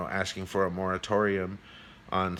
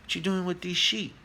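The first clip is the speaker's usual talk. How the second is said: higher-pitched voice for a curious tiger; storyteller's acted tiger, pitched up; big tiger; 8 semitones higher than usual. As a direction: call out a puzzled question to the little tiger. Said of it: "he goes over to him and he says".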